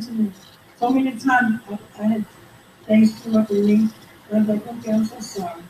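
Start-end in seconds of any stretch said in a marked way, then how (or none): 4.7-5.6 mildly acted soft apology; soft and nice. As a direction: play a meek, hushed apology. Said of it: "you talking soft and nice".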